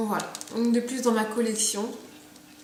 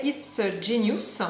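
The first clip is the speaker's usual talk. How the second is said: slow, careful attempt at English accent; French speaker carefully putting on an English accent; much slower than usual. Shown as a demonstration. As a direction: say it slowly in your best English accent. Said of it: "attention avec mon accent anglais".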